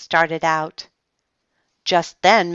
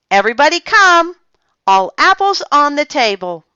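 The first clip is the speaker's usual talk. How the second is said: loud, high and fast call; 11 semitones higher, 9 dB louder than usual. A narrator's reading. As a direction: summon everyone from the yard. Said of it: "Later she called".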